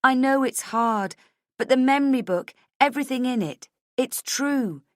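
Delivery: high, loud, insistent; impassioned plea. A narrator's reading. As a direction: plead urgently to be trusted. Pleading to be believed.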